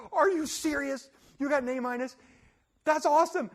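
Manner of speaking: high, laughing mock disbelief; mock amazement. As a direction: feign surprise at the news. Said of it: "And I'm sitting there".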